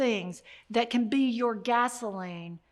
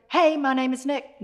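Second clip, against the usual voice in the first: a louder retold holler; mild mock scream; 3 semitones higher, 5 dB louder than usual. Small boy trying harder to get a stranger's attention, mock scream. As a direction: imitate an insistent child calling out, only moderately loud. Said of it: "Nick got a little bit louder, screaming".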